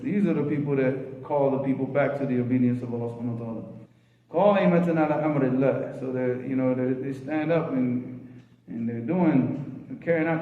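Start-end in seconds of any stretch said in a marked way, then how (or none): 4.3-6.0 hadith recitation. Acted. Recites hadith phrase in Arabic.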